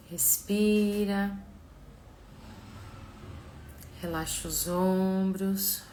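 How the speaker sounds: slow, soft meditation voice; calm, unhurried guiding with long pauses; guided visualization. Acted.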